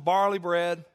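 "barley bread" leaned on slowly; slow down and emphasize "barley bread"; stress on "barley bread". Shown as a demonstration.

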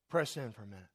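low and soft, falling away almost to a whisper; hushed urging. Real, not acted. Preacher settling the congregation after the laughter, hushed urging. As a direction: quietly draw them in to listen.

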